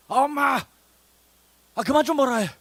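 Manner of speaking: loud, high whining outburst at mom; acted exasperated child. Child fed up with mother's nagging, loud exasperated protest. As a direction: play a nagged kid snapping back loudly. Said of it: "엄마가 잔소리를 하면 뭐라 그래요?".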